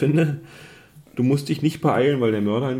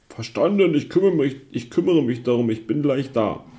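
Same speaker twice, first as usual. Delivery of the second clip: eager cop on the radio; 3 semitones higher, 4 dB louder than usual. Acted. Antwort über Funk, gespielt.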